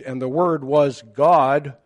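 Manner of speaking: slow verse line landing firmly on "God"; stress on God. Shown as a demonstration. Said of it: "God is being in its most emphasized position".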